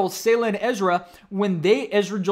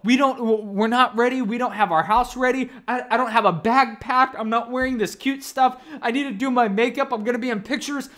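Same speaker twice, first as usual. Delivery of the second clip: higher-pitched mock fretting of a wife in labor; pitched-up, lightly panicked retelling; retold tearful protest; 3 semitones higher than usual. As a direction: imitate an upset, unready mom-to-be. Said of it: "she started to cry".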